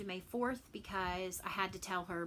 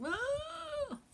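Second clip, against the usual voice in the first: sudden very high mock scream of overwhelm; retold meltdown scream; 4 dB louder than usual. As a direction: let out a short, piercing teenage wail. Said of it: "and I finally was like".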